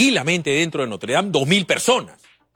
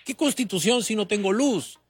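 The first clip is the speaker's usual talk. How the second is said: raised-pitch indignant plea, questions piling up; voicing frustrated poor voters; 6 semitones higher than usual. Poor voter questioning the system, voiced high and indignant. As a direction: speak as a neglected villager demanding basics. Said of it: "la gente dice".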